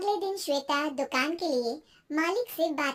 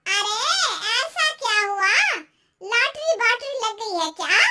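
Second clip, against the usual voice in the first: higher, astonished neighbour aunty; gasp-free amazement, pitched up; nosy aunty quizzing eagerly; surprised aunty; 5 semitones higher, 6 dB louder than usual. Acted. Nosy aunty reacts to neighbour's news.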